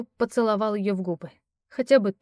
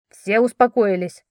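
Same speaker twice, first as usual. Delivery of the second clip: louder, firm call for calm; raised voice; 6 dB louder than usual. Acted. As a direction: cut through the panic with a raised voice. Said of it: "Дерек повысил голос".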